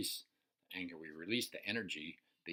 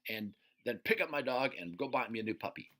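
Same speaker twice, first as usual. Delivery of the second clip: a louder, higher angry tirade at Bob; ranting at the neighbor who ran over the dog; 4 semitones higher, 5 dB louder than usual. Shown as a demonstration. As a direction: tear into him, building the rage. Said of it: "I'm like".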